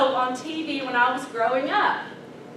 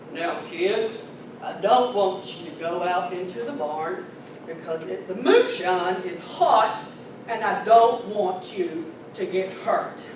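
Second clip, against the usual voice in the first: grandpa's warning; 7 semitones lower than usual. Retold or imitated. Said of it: "he said".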